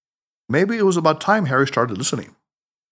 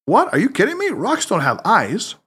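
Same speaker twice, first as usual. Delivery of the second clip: incredulous protest; 6 semitones higher than usual. Acted. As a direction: pitch leaping up in disbelief, then slowing. Harry disbelieves Tanaka's odd demand.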